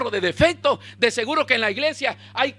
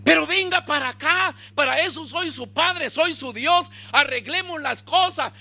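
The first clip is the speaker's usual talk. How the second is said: high, raised-voice urging; insistent fatherly summons; 8 semitones higher than usual. Acted. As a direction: call him over forcefully as a father. God as father summons hiding Adán.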